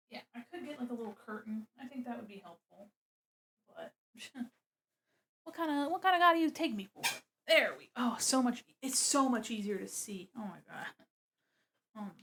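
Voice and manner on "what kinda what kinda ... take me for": higher, fast mock indignation; teasing fake outrage; mock offended. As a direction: play it outraged for laughs. Mock offended rhetorical question.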